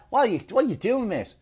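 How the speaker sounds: quick, high, mock-exasperated questioning; scolding sergeant. Sergeant to out-of-shape officer, mock scolding. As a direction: play a fed-up boss demanding an answer.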